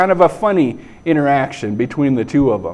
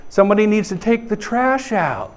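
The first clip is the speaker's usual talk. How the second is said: higher, pointed mom hint; 5 semitones higher, 3 dB quieter than usual. Acted. Mom nudging the family about chores, hinting. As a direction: drop a loaded household hint, pitched up. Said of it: "like a mom would do".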